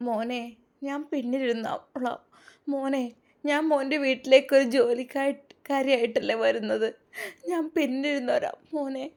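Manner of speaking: tearful plea. Acted. Mother humbly asks her son to let her sit in back, tearful. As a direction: plead gently, nearly crying. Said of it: "അവരുടെ മിഴികൾ നിറഞ്ഞൊഴുകുന്നുണ്ടായിരുന്നു".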